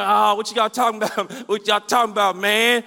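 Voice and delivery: a hint of slurring drunk guy; mock drunk heckler, loosely slurred; lightly imitated drunk. Drunk man butting in on talk about Jesus, mock slurring. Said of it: "this one dude, he's drunk, super drunk".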